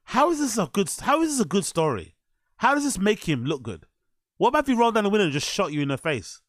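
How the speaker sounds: high-pitched disbelief; incredulous. Real, not acted. Reactor challenging a podcaster's story, incredulous. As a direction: question it in rising exasperation.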